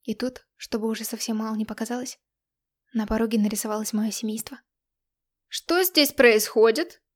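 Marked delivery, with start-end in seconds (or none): 5.5-7.0 slow, loud, lecturing mother; a stern mother demanding answers; stern mentor tone. A narrator's reading. Mother confronting daughter, slow stern demand. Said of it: "менторским тоном вопрошала мать".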